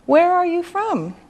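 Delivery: "from" high, then falling; teacher's demo question, dropping on "from"; modelled question, falling tune. Shown as a demonstration. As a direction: model "Where are you from?" with a falling end. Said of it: "and how you say it".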